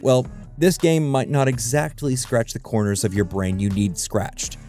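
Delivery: ordinary talk, nothing marked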